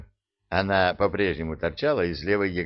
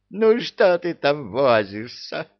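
slow, loud pained whine; whining in pain; 7 semitones higher, 5 dB louder than usual. Acted. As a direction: whimper through the pain. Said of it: "подвывал от боли Иблис".

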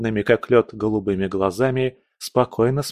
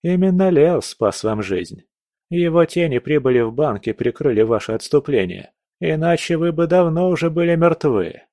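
higher, mocking tone; smirking; 4 semitones higher than usual. Young man reminds the prince who saved him, mocking. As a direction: rub it in with a smirk. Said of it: "парень усмехнулся".

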